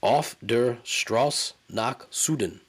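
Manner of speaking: "Auf der Straße nach Süden" said slowly in clumsy English-accented German; mangled German title. Shown as a demonstration. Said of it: "I know I'm saying that entirely wrong".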